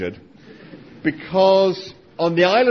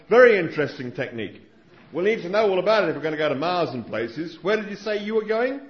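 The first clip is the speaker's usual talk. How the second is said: Struan Sutherland. Retold or imitated. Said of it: "my Australian accent isn't very good".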